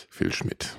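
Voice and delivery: breathy whispered introduction; whispered name. Acted. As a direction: whisper his name like a secret. Host introduces third guest. (geflüsterter Name)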